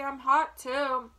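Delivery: put-on loud, drawn-out boyish complaint; cried out. A narrator's reading. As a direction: shout it slowly, stretching the words. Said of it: "cried Avery".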